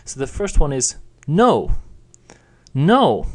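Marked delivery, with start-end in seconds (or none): 1.3-3.3 high start, falling sharply. Shown as a demonstration. Teacher showing a falling no to learners. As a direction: snap the no downward like a refusal. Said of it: "with that sharp falling tone".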